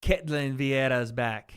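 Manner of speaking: put-on a slow, light Brazilian accent on the name Ketlin Vieira. Commentator saying a fighter's name in a light Brazilian accent. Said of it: "I do an accent when I say her name".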